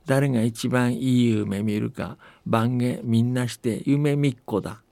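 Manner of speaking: put-on steady, unhurried old-tale narration with light dialect voices for the villagers; folktale storytelling. A narrator's reading. Telling the host a New Year folktale from Akita, calm storytelling voice. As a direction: tell it like a grandparent spinning an old story.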